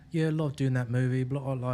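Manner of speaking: lightly imitated foreign actor accent; non-American accent. Imitating an actor in an interview, lightly put-on non-American accent. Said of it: "You're fucking not American".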